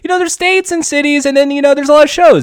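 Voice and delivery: lightly voiced rambling TV host; hint of an excitable host, talking over everyone; Chris Hardwick. Told the impression doesn't count, lightly mimicking a rambling TV host. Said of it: "Chris Hardwick from, The Wall".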